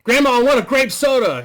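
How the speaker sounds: put-on high, loud whining kid; whiny grandson. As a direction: whine the demand like a spoiled brat. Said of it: "this little asshole".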